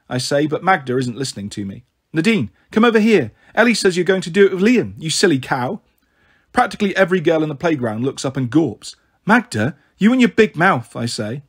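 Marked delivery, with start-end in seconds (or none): 2.1-5.8 calling out. Acted. Calling across the playground. 9.2-11.0 loud, exasperated rebuke; annoyed. Acted. Angry rebuke.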